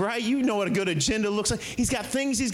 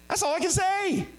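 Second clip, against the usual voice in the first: rising fervent testimony; 6 semitones higher than usual. Acted. Testimony of healed man as donkey.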